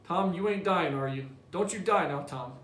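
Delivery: worried little brother. Acted. Sid fearing Tom is dying.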